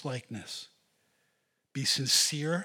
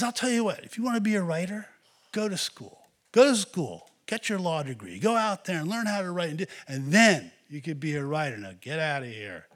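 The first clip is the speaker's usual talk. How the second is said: stern advice; 3 semitones higher, 5 dB louder than usual. Retold or imitated. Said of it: "And he says".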